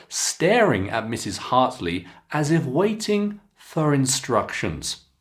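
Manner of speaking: clear, expressive teacher read-aloud; careful storybook reading for students; model reading aloud. Shown as a demonstration. Teacher reads model passage again.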